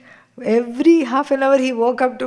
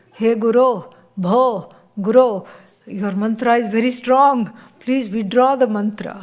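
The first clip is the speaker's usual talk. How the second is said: louder, pleading cry to the guru; distressed plea; 4 dB louder than usual. Acted. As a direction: beg the teacher to lift the spell. Student runs to teacher in distress.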